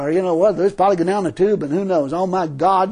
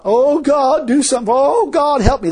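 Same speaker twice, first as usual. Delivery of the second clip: mock begging; 5 semitones higher, 4 dB louder than usual. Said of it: "That ain't praying. That's begging".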